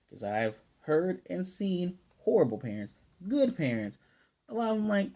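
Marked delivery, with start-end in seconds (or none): 3.3-4.0 "good" set apart with emphasis; stress on GOOD. Real, not acted. Contrasting with horrible parents, firm emphasis on "good". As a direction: land firmly on the word "good". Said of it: "I'm gonna emphasize good".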